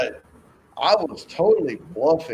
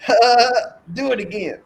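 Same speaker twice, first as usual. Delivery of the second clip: high-pitched mock child's eagerness; excited kid impression; 12 semitones higher, 4 dB louder than usual. Father mimicking his kid after the hold, excited. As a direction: imitate a thrilled kid wanting more. Imitating kid begging for more.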